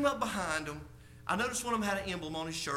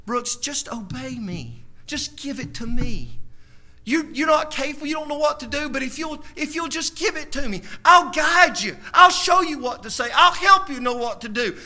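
voice of God; 7 semitones higher, 11 dB louder than usual. Acted. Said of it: "the Lord taught me".

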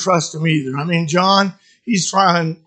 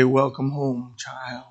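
tender welcome; 5 semitones lower, 7 dB quieter, slower than usual. Acted. God gently greets the returning.

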